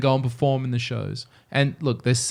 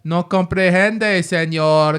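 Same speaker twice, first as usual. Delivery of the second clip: higher, louder, slow mock foreign cashier; mock cashier brush-off; 6 semitones higher, 6 dB louder, much slower than usual. Imagined deaf cashier fobbing off customers, hammed-up. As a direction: play dumb to every customer. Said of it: "Be like".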